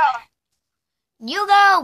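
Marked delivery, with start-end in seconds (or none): 1.3-1.8 loud insistent yell; shouting. Real, not acted. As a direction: shout it at her. Urging friend to talk.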